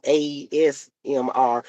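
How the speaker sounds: "A S M R" spelled out slowly, letter by letter. Retold or imitated. Daughter correcting her mom, "A S M R" letter by letter. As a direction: say each letter of "A S M R" separately. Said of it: "She says".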